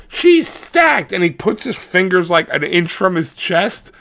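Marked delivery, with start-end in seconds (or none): 0.1-1.1 mock leer. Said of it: "And he goes".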